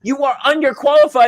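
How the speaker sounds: high-pitched mock rejection; blunt employer. Employer rejecting job applicant, mock bluntness. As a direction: lightly imitate an indignant hiring manager. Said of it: "The guy's like".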